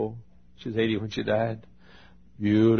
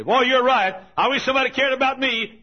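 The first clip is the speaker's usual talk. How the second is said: high, loud whiny wish; mock self-pitying listener; 14 semitones higher, 8 dB louder than usual. Preacher mimicking a congregant who misses the point, high and whiny. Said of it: "somebody's gonna say".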